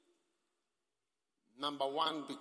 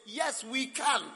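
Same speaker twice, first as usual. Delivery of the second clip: lightly voiced Obama; 8 semitones higher, 5 dB louder, slower than usual. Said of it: "Obama came".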